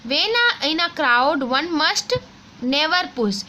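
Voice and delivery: put-on slow, careful textbook reading for children; reading aloud slowly. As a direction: read each word clearly for the class. Reads the rhyme lines. (बच्चों के लिए धीरे-धीरे पढ़ना)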